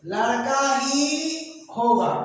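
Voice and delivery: लड़का ही होगा said slowly with a pause before होगा; slow repeat. Shown as a demonstration. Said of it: "future tense में ले जाते हैं". (धीरे दोहराया)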